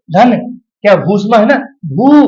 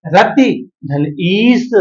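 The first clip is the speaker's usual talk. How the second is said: very slow, word by word; patient drawn-out breakdown; slow dictation; much slower than usual. Shown as a demonstration. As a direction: lay out each piece slowly. Teacher slowly splitting a sandhi.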